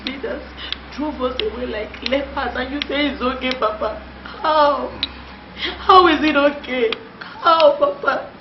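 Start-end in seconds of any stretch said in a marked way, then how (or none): 4.4-8.3 angry demand. Acted. Daughter confronts her father.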